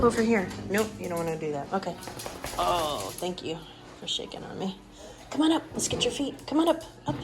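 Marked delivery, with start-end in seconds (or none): 5.3-7.1 high-pitched call to the dog; sing-song high encouragement; high coaxing. Real, not acted. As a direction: coax the pup up, voice way up.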